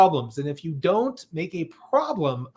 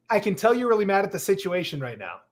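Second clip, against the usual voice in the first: calm reassuring. Shown as a demonstration. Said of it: "say it again, Alex".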